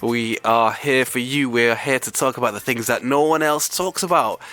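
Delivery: hoarse and croaky from illness. Real, not acted. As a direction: talk through a sore, croaky throat. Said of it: "with a very croaky voice".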